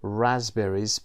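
"رازبریز" with Z straight into B, no P; silent P, voiced S. Shown as a demonstration. Teacher pointing out the silent letter, no P in "رازبریز". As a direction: drop the P in "رازبریز" and buzz the S as Z. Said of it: "پی تلفظ نمیشه".

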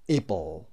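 "able" said ih-bull; short-I "ible". Shown as a demonstration.

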